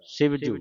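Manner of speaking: ਸਿਵਜੂ starting with a plain s; clear s sound. Shown as a demonstration. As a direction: say ਸਿਵਜੂ with s, never sh. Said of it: "ਸੱਸੇ ਦੀ ਆਵਾਜ਼ ਉਚਾਰਨ ਹੋਵੇ". (ਸਿਵਜੂ ਸੱਸੇ ਦੀ ਆਵਾਜ਼ ਨਾਲ)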